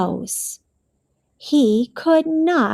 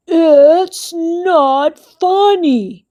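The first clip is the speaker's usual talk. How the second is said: mock shout; 4 semitones higher, 4 dB louder, slower than usual. A narrator's reading. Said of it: "shouted Bear".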